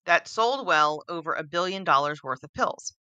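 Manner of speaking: reading while short of breath; running out of air mid-sentence. Real, not acted. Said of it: "let me catch my breath".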